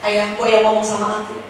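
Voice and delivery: mock-tender wifely plea, starting low; over-the-top pleading. Wife pleading with husband to talk to her, over-the-top. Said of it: "agak lebay gitu".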